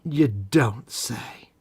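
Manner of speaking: slow, breathy whispered aside. Acted. Sly whisper to his co-host, teasing him. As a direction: hush it out, very slowly. Mock reply to Cole's quirks.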